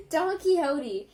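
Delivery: Don Quixote drawled slow and loud like a cowboy, "Don Kee-hoh-dee". Shown as a demonstration. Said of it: "I sound like a, like a cowboy".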